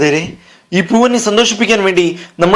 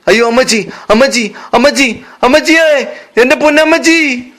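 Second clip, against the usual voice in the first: rising, higher wail of a daughter in grief; wailing for mother; 3 semitones higher than usual. Acted. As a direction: cry out to a dead mother, hamming it up. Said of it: "അവളുടെ ശബ്ദം കേട്ട്". (അമ്മയെ വിളിച്ച് നിലവിളിക്കുന്ന മകൾ)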